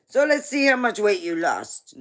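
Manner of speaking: grandma voice. Retold or imitated. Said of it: "my grandma goes".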